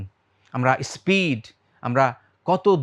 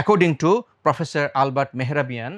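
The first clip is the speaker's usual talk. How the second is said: slow reveal; 2 semitones lower, much slower than usual. Shown as a demonstration.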